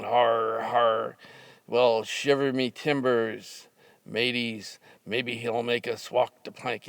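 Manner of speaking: hammed-up pirate guffaw; lightly voiced pirate talk; mock pirate. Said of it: "we started going".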